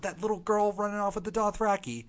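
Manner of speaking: put-on a light British accent; a hint of British while marveling. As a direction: say it lightly like a Brit. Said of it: "I said that very British".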